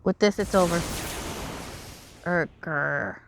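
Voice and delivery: lightly voiced regal dragon prince; dramatic character voice. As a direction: read it as a calm proud royal. Voices game dialogue.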